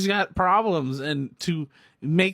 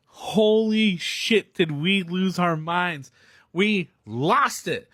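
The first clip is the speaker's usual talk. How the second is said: excited; 3 semitones higher, slower than usual. Real, not acted. Recalling the crowd losing it.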